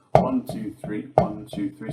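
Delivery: "One, two, three" counted in rhythm, accent on "One"; counting in threes. Shown as a demonstration. Drum teacher showing groups of three, rhythmic counting with "one" accented. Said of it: "the groups of three are like this".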